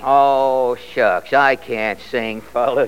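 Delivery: low, slow, bashful mumble; bashful young singer, low and slow; shy aw-shucks refusal. Acted. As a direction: shrug it off like a shy kid. Young Fred shyly refuses.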